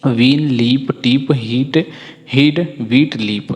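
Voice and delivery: वीन, लीप, टीप as evenly spaced words with an ee vowel; read-along drill. Shown as a demonstration. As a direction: lead learners word by word from वीन to लीप. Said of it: "इसे आप एक बार पढ़िए".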